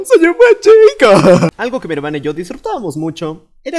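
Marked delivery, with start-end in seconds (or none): 0.0-1.5 very high, loud, drawn-out plea; loud desperate good boy. Acted. Kid begs mom for candy, very loud and high. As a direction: beg at full volume.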